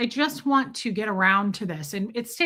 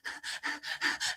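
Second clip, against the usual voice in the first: quick breathy panic panting; mock hyperventilating without words; freak-out gasps; 12 dB quieter than usual. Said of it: "started, like, freaking out".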